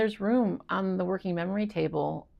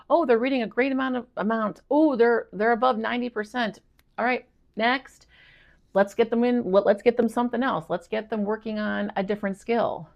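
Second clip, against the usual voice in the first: quick, breezy, higher voice; hurried teacher voice; 5 semitones higher than usual. Retold or imitated. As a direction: brush it off like a busy teacher. Teacher voiced exiting students.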